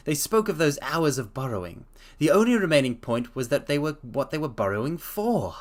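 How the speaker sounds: reading a story aloud, lightly voiced Holmes. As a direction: read the detective's explanation steadily. Reads Holmes's explanation aloud.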